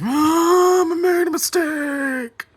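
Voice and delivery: very high, loud, slow pleading cat; cat's sorry voice. Pretend. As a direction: whimper like a sorry kitten. Voicing the cat at the door.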